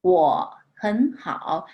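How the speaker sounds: 我很好 read slowly, 我 rising to a second tone; slow careful model of 我很好 with tone change; third tone sandhi. Shown as a demonstration. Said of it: "Be careful, third tones, we have to change".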